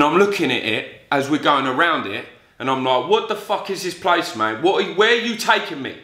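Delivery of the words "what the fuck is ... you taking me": high-pitched, alarmed demand; retold agitated questioning. Passenger asking the driver about the jail-like place, agitated. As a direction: demand answers in a raised pitch.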